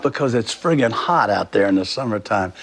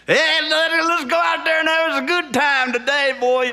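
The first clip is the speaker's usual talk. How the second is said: mock coach voice. Mocking coach's hard-on-me pep talk.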